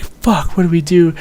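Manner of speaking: high, panicky "what do we do"; mock panic. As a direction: voice the crew's alarm. Whole crew freaking out.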